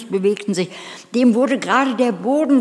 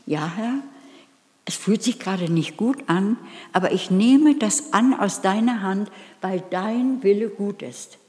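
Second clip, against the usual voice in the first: humble prayer. Retold or imitated. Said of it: "dann gibt es ein Annehmen".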